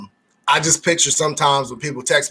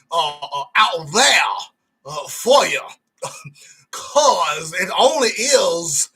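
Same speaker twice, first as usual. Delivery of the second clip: mock preacher; slower than usual. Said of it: "boasting about his waves, mock preaching".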